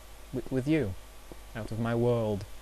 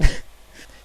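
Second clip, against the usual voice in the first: brief breathy chuckle; short laugh; 6 dB louder than usual. Real, not acted. Vlogger moving on to the next sex story, short laugh. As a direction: let out a quick amused laugh. Amused between two stories.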